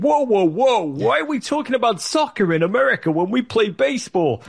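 high, mock-alarmed old anchor cutting in; high mock Brokaw voice; imitating Tom Brokaw. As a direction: bluster in as the interrupting host. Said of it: "He said".

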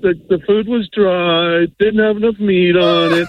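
Foodie Justice cadence. Retold or imitated. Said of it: "Every sentence is like that".

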